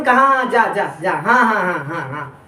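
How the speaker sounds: put-on delighted ha-ha, tailing off low; demonstrated chuckle of joy; mock happy laughter. Shown as a demonstration. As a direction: act out a pleased laugh that sinks away. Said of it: "जैसे खुशी हुई".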